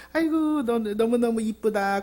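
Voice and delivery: fond praise. Retold or imitated. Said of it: "그렇게 막 이렇게 칭찬하면".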